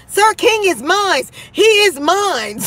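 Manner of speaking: high, slow mock claim "Sir King is mine"; hammed-up jealous fan shouting; mock jealous girl. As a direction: play a jealous fan staking her claim. Imagining rivals fighting over Sir King.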